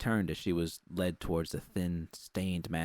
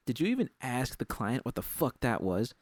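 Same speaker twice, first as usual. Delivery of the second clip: angry confrontation; 5 semitones higher than usual. Acted. Judy confronts Susie angrily.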